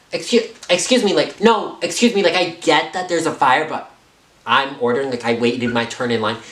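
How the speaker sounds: mock entitled indignation. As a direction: play the offended guest demanding to be served. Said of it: "they're straight up like".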